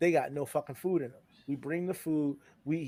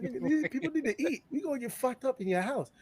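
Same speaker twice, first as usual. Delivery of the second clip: mock exasperation; 10 semitones higher than usual. Retold argument with host.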